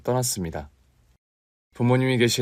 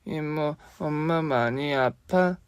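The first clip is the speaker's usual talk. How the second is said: put-on small child asking; 5 semitones higher, 4 dB quieter, much slower than usual. Child asks aunt about sick mother.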